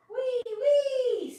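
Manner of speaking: high, loud squeal of delight; gleeful cry. Acted. Tiny spiderling flying through the air, gleeful high squeal. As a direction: squeal it like a tiny creature having fun.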